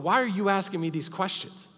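high, strained, loud plea; exasperated pleading. Acted. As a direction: press the point, voice climbing high. Peter's imagined frustrated plea.

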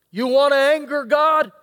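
fiery preacher warning; preaching shout. Acted. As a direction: call it out to the congregation.

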